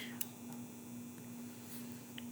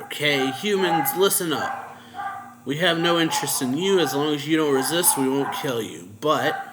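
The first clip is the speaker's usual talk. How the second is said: raised voice addressing a crowd; louder, higher, mildly commanding retold speech; retold announcement; 3 semitones higher, 5 dB louder than usual. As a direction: call out terms to the humans. Demon addresses the captured humans.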